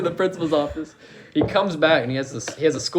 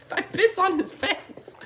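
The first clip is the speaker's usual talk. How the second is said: high, slow laugh through words; 14 semitones higher, 4 dB quieter, slower than usual. Real, not acted. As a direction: crack up while saying it. Cracking up at own story.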